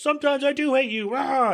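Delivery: high-pitched outburst, then a cry; blurted outburst. Retold or imitated. Faye finally snapping at Helen, shrill high outburst. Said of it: "Faye goes".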